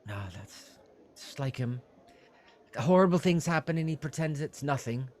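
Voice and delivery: high, eager innkeeper voice; fussy innkeeper. Acted. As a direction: play a flustered, helpful innkeeper pitched high. Innkeeper sighs about Sildar.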